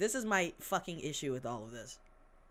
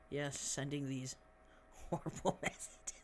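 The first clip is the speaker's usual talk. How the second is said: whisper; 5 semitones lower, 9 dB quieter than usual. Real, not acted. Snide aside on the news.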